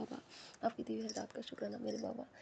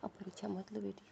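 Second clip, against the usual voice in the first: whispered plea. Real, not acted. Opening whispered plea to goddess.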